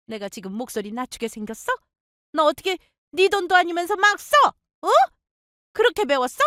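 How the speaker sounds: put-on high, shouting older woman; furious mother-in-law. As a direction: push past her son and go for her.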